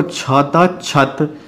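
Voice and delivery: छत slowly, plain chh sound; slow demo of chh. Shown as a demonstration. Teacher contrasts छत with क्षेत्र, slow demo. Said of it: "एक जैसा लगता है".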